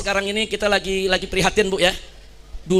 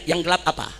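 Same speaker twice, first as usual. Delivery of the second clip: calm official imitation; 5 semitones lower than usual. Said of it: "mestinya pejabat undang mahasiswa".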